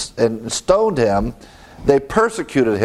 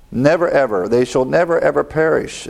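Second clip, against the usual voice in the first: "never ever" given deliberate weight; emphatic never ever. Shown as a demonstration. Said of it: "It's emphatic".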